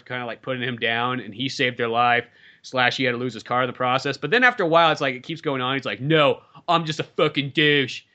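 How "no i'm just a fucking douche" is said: slow, lightly voiced blowhard; Donald Trump. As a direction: drag it out in a loose mock impression. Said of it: "I don't know why I talk like".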